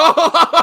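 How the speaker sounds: sharp, high burst of laughter; loud laugh. Real, not acted. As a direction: bark out a laugh. Laughs at sarcastic claim.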